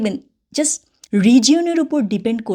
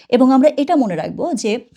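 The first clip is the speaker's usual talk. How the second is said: ordinary delivery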